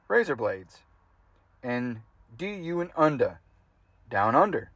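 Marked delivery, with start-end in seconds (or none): 2.3-3.4 Australian accent built from sound-alike syllables; mock Australian accent. Shown as a demonstration. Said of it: "how to pronounce things in Australian accent".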